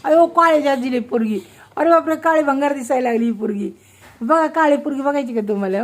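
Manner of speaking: high, loud teasing exclamation; mock alarm. Mother teases her daughter on camera, hammed-up shock. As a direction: gasp it out as if shocked, playing it up.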